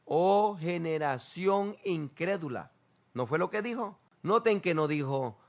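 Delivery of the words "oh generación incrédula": drawn-out grieving rebuke; slow, heavy "Oh generación incrédula"; slow solemn lament. Shown as a demonstration. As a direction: stretch each word like a sorrowful sigh. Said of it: "Respondiendo Jesús dijo".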